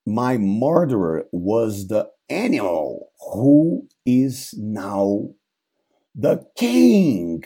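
dead king's ghost naming his murderer; ghost voice rising to accusation. Acted. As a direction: build from hollow slowness to a sharp accusing end. Ghost revealing the killer.

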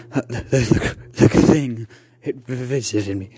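halting, stammered confession; stuttering. Acted. Uncle telling aunt of the creature's visit, stuttering. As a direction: trip over the words nervously. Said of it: "he stuttered".

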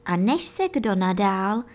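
usual speaking voice

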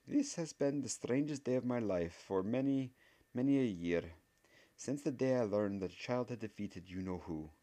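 a stern teacher marvelling aloud; wondering witch voice. Acted. Voiced professor character.

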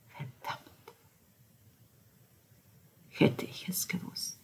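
whisper. Acted. Whispered grief.

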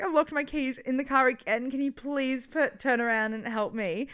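imitating a winded plea; mock breathless request; out of breath. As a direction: beg for help as if puffed from running. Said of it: "talking like this".

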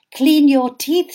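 firm mummy instruction; lightly voiced mother giving orders; mother to daughter, firm order; mother's order. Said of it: "said Mummy".

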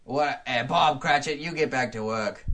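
gruffly hammed-up boss; Ebenezer Scrooge. Scrooge ordering his clerk back to work, hammy. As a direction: order your clerk about like a miser. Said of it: "I'll be playing the role".

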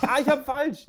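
high giggly voice; stifled giggles. Real, not acted. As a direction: fight back the giggles. Botched joke, still giggling.

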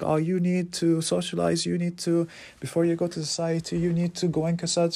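high mock voice handing out orders; imitating the bossy teacher. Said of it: "She's like".

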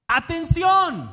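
loud, high, drawn-out shout; exclamatory. Shown as a demonstration. Preacher reading the exclaimed word to rouse listeners, exclamatory. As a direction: shout it like a call to attention. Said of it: "con signos de exclamación".

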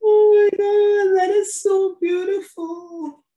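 overcome, voice wavering high with tears; tearful praise. Real, not acted. Host weeping over the quote on nursing, tearful and high. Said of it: "Don't cry or I'm gonna cry".

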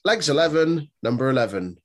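sing-song bingo calls; bingo caller. Pretend. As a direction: call the numbers like a bingo hall caller. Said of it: "it sounds like a bingo call".

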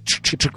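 clucking like a rooster; imitated rooster noise. Showing friends the rooster at the altar, imitated clucking. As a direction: rooster clucks made with the mouth. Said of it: "el gallo se iba a parar enfrente del altar".

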